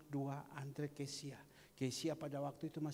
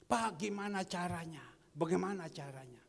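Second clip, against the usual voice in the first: louder, higher asking; pleading question; 3 semitones higher, 6 dB louder than usual. Acted. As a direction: call out the question. Voicing a congregant's question. (pertanyaan memohon dengan lantang)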